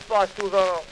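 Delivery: knowing, skeptical echo; mocking repeat. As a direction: throw his words back at him. Saint Peter repeats the poet's answer.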